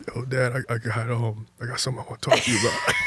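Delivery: halting start, then a rushed mock-nervous finish; nervous shaky retelling. Son in the car asking dad to talk, re-enacted nervously. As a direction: stumble into it, acting out the nerves. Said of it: "Voice all shaking".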